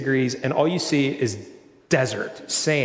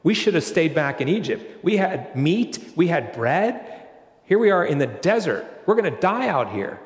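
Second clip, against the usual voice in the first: mock complaining crowd, pitched higher; grumbling Israelites; 3 semitones higher than usual. Pastor voices the Israelites grumbling to God, mock whiny. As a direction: whine it like hungry people in the desert. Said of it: "they started grumbling".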